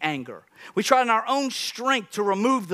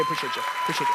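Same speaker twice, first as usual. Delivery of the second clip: squeaky thanks; 4 dB quieter, much faster than usual. Pretend.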